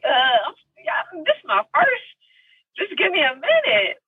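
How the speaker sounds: very high, faltering mock whimper; mock tearful plea. First-time actress asking crew for time, mock tearful plea. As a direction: plead haltingly, imitating tears.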